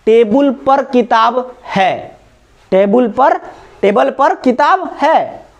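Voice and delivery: slow, careful, with पर stressed; slow teaching demo. Shown as a demonstration. Teacher slowly modelling a sentence for students. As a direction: spell it out slowly, leaning on पर. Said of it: "clear है".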